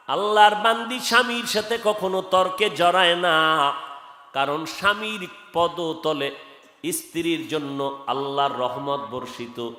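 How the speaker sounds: rhythmic, chanted exhortation; melodic waz preaching. Real, not acted. Preacher exhorting congregation about wives and husbands, chanted preaching. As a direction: preach in singsong with lengthened endings.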